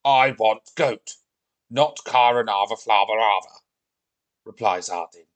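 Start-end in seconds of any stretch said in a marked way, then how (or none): 0.0-3.6 screaming tantrum. Acted. Viking kicking and screaming at Olivia, loud tantrum. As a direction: hammer out the stubborn demand. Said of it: "while still kicking and screaming".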